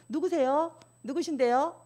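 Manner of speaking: cold, sharp who-is-this; curt. Shown as a demonstration. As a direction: snap a bit coldly at the caller. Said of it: "좀 쌀쌀맞아 보이잖아요". (쌀쌀맞게 누구세요)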